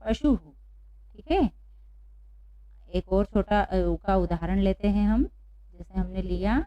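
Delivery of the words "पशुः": "पशुहु" ending on an echoed हु; visarga demonstration. Shown as a demonstration. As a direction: repeat "पशुहु" for learners. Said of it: "क्या पढ़ेंगे?".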